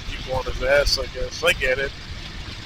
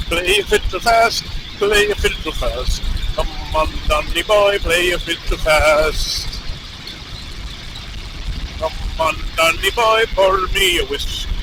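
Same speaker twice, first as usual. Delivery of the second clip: attempted Irish accent. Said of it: "can't do an Irish accent".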